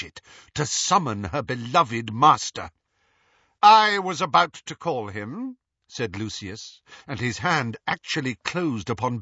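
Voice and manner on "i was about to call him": high, loud interruption; assertive protest. A narrator's reading. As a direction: cut in to claim the right. Lucius asserts himself against Bellatrix.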